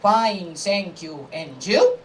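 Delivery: lightly voiced rote classroom reply; students answering together. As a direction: recite a textbook answer, lifting the last word. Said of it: "students all together answer".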